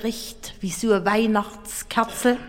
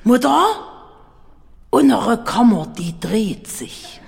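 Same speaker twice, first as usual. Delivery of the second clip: betrunken lallend. Acted. Betrunkener Richard zur Frau.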